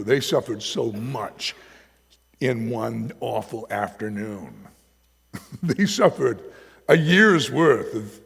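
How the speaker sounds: slow, heavy, rising in force; emphatic stress. Real, not acted. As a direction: lean on each word of suffering. Preacher stresses the suffering.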